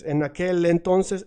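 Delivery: En aquel entonces said as one flowing chain, the L of aquel running into entonces; linked phrase. Shown as a demonstration. Teacher demonstrating linked Spanish phrase. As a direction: glide the words together. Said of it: "you wanna connect the phrases".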